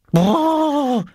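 high spluttered raspberry; lip-spluttering. A narrator's reading. Lars making light of Oskar's warning, spluttering. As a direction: burble through the lips, high-pitched. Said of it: "sprudelte Lars durch seine Lippen und lachte".

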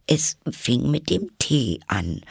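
high, halting timid answer; reply meekly to a cross king; nervous Hatter. Acted.

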